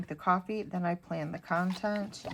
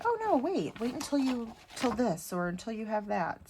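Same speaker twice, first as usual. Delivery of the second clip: mock hesitant voice; 4 semitones higher than usual. Mock quote of imagined cautious advice.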